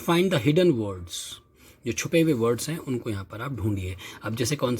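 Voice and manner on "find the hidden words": slow reading. Shown as a demonstration. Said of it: "अब वो कहता है".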